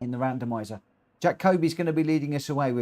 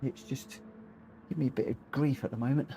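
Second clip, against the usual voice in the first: wincing in pain; 4 dB quieter than usual. Real, not acted. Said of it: "I'm wincing a little bit".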